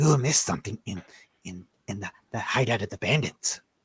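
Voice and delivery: hushed, secretive half-whisper. Narrating a figure who speaks to the listener as they walk, half-whispered. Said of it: "he kind of whispers".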